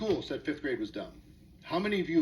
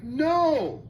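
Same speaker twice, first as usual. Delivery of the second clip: a loud, high, flat refusal; firm no; 8 semitones higher, 6 dB louder than usual. Retold or imitated. The child refuses the fifth graders with a loud no. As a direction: shut it down hard. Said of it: "He's like".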